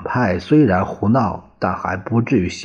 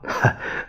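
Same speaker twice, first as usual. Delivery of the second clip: a brief, soft laugh; short soft chuckle; 6 dB quieter than usual. A narrator's reading. Governor laughs off the professor's worry with a soft chuckle. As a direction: chuckle it off under your breath. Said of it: "魏道明失笑道".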